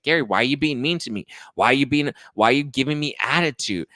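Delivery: whine-yell at him in imitation; imitated yelling. Mother accusing her ex of being mean, mock yelling. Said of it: "she's, like, yelling at Gary".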